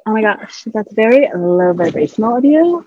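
lightly mocking spiritual judgment; changed, put-on voice. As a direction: imitate a judgmental spiritual type, slightly lifted. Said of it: "you changed your voice".

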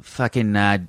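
put-on a light Boston accent, slowed down; a mild put-on Boston accent. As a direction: drop the r's Boston style. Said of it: "Boston accent is more like".

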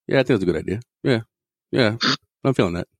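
E-Man impersonation. Retold or imitated. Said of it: "E-Man impersonation".

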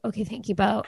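soft, numb thanks. Retold or imitated. Mother thanking her son while numb, soft drained voice. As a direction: barely get the words out, drained. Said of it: "I was just still, like, numb".

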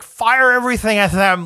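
half-hearted try at the actor's villain bark; mock Ben Mendelsohn villain. The speaker mimicking Ben Mendelsohn giving a villain order, lightly voiced. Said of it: "I can't do it 'cause".

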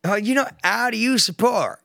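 high, hammed-up American accent; bad American accent. Imitating an American bar patron, a bad American accent. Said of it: "every accent but American".

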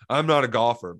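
mildly mocking false modesty; lightly scoffing imitation of modesty; mock humble. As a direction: repeat a humble claim in disbelief, at speaking volume. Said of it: "he's over here being humble".

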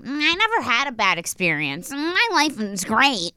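imitated unforthcoming guest. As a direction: stretch it out after a noncommittal "mm". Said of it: "some guests come on here and they are like".

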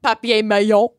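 mock French accent; hammed-up French accent. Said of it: "foreign enunciations".

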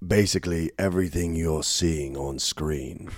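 very low, soft, slow British voiceover; Tom Hardy. Retold or imitated. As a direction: drone on as a hushed, deep British trailer narrator. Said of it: "It was like Tom Hardy".

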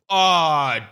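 a hint of a cautious friend breaking news; lightly voiced concerned buddy; buddy's voice. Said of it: "one of my buddies goes".

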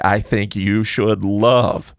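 thumbs knocking the mic; bumping the microphone while talking. Real, not acted. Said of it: "I keep hitting the mic with my thumbs".

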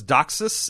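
Doxus said almost like "duck sauce"; Doxus, echoing the words duck sauce; imitated pronunciation. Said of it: "the way this guy pronounces".

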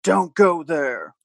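slow, drawn-out mock spook; lightly put-on ghostly warning; spooky ghost voice. Host offering what the ghost says, spooky. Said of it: "sort of a deep, spooky voice".

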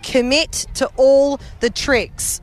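slow quote. Retold or imitated. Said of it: "this little professional said".

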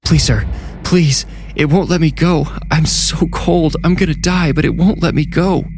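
a second trapped soul crying out from the same body; different pleading voice. A narrator's reading. Possessed man's other voice begging the janitor to free it. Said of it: "A different voice yelled".

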